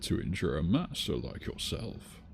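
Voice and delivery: soft, lightly voiced old master; old man voice. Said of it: "that goes with my old man voice".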